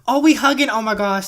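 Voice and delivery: gasp, then a high, loud squeal of delight; excited gasp. Real, not acted. Gamer watching her couple hug, high loud delighted gasp.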